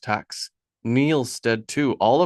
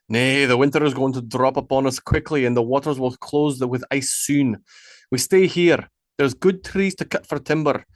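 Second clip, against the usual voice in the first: lightly voiced leader, firm and raised; commanding chieftain; 2 semitones higher than usual. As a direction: lay down the plan like the one in charge. Ragnar commanding the camp.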